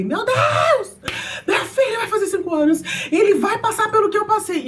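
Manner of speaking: high, loud panicked cries with a sob; frantic shout breaking into crying. Retold or imitated. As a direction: scream it out in sudden panic. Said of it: "eu comecei a gritar dentro do carro".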